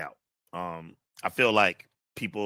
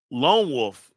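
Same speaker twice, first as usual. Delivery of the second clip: high, loud name call; announcer voice; 5 semitones higher, 6 dB louder than usual. Acted. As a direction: announce it with flair.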